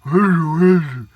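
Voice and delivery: hag cackle. Retold or imitated. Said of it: "Sound like an old barroom hag".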